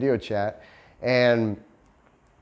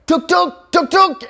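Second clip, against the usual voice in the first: high, loud mock driver's call tuk-tuk; imitating a tuk-tuk driver hailing from the road; 8 dB louder than usual. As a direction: call out to a passing tourist, much higher and louder. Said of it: "and they're like".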